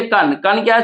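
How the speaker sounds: कन said as a short syllable. Shown as a demonstration. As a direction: keep the vowel of कन short. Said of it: "छोटा है".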